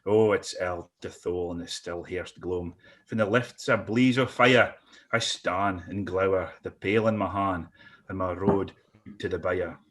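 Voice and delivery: reciting a Scots poem; dramatic poetry reading; poem recital. Acted.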